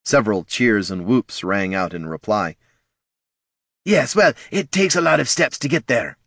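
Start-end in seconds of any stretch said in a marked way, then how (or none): 3.8-6.2 breezy, dismissive guildmaster; airily. A narrator's reading. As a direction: wave it off lightly. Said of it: "said Corgan airily".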